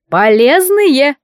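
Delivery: slow, insistent pronouncement; drawn-out emphatic. A narrator's reading. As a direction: stretch the word slowly and firmly. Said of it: "подняла ложечку эта страшная женщина".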